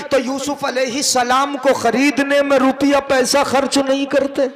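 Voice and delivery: measured, sustained preaching delivery; sermon declamation. Acted. Preacher quoting Aisha's praise to the congregation, declaimed. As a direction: declaim the verse on a steady, ringing line.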